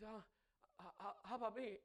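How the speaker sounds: laughing through a mock self-pitying whine; mock the visitor with a laugh. Preacher imitating a selfish visitor, laughing.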